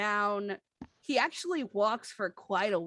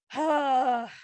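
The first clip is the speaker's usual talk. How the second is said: exasperated sigh; 5 semitones higher, 6 dB louder than usual. Acted. Boss exasperated after spill.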